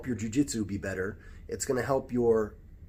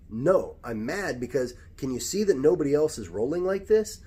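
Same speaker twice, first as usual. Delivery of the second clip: angry retort; 4 semitones higher, 4 dB louder than usual. Retold or imitated. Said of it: "And I was like".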